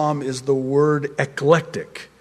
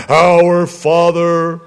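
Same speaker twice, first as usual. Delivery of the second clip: slow, loud, drawn-out formal prayer; solemn recitation; 4 dB louder, slower than usual. Pretend. The Lord reminding Peter how to pray, mock-solemn intoning. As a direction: intone it grandly, stretching each word.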